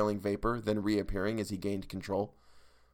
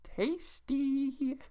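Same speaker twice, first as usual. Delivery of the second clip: high soft mutter; high hungry mutter; 5 dB quieter than usual. A narrator's reading. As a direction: mutter it with relish. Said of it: "and muttered".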